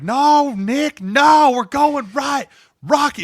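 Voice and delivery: high-pitched mock yell; imitated screaming argument, very loud; Phil. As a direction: shout the teammate down, insistent. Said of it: "they're just yelling at each other, dude, like, screaming".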